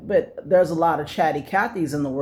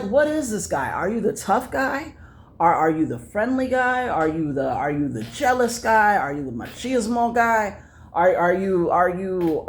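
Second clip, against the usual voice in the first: mocking questions; 3 semitones higher than usual. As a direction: needle him with each question.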